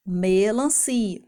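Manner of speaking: MELANCIA slowly, with a long opening ME; stress on ME. Shown as a demonstration. Teacher revealing the missing piece, long ME in MELANCIA. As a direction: stretch the missing ME at the start of MELANCIA. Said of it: "Que pedaço que tá faltando".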